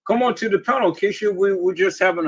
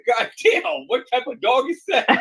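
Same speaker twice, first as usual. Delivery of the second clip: high, startled mock exclaim; startled passerby; 6 semitones higher than usual. Passerby spotting the huge dog, startled. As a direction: gasp at the sight of the dog. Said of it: "and said".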